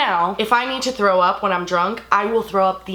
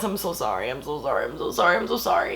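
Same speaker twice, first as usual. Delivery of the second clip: sincere apology; 5 semitones lower, 5 dB quieter than usual. Real, not acted. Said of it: "Papi, if you're watching this".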